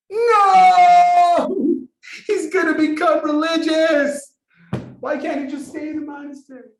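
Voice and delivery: hammed-up high, loud wail of dismay; horrified parental wail. Secular parents react to son going to Israel, mock-horrified wail. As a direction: wail in mock horror, then ease off the volume.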